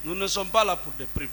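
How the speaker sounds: repeating to be heard. Real, not acted. Lawyer repeating to a witness who asked "vous dites?", firmer.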